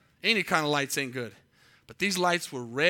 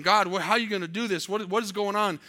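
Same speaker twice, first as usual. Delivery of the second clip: retold stressed questioning, slightly raised; stressed pleading; 4 semitones higher, 4 dB louder than usual. Preacher retelling his prayers during a hard week, stressed. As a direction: question God with a touch of stress. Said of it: "I'm just stressing".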